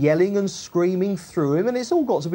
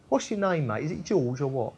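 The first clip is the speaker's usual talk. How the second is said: soft, offhand chat to a bloke; casual personal question; 4 semitones lower, 5 dB quieter than usual. Retold or imitated. Jesus casually asks the bloke his name, low-key and matey. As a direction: ask it lightly, like one mate to another. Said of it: "He's asking the bloke his name".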